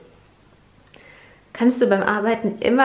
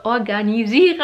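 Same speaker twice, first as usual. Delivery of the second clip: Organisiere! repeated, its s lisped through braces; lisping the s of Organisiere on purpose; 3 dB louder than usual. Real, not acted. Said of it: "hört ihr eigentlich das Lispeln?".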